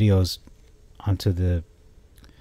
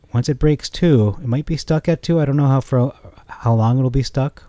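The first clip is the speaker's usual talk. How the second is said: excited, higher-pitched rush of talk; a little too excited; 5 semitones higher, 3 dB louder than usual. Real, not acted. Stock analyst getting carried away over two dollars, excited. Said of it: "I'm a little too excited. I'm talking too fast".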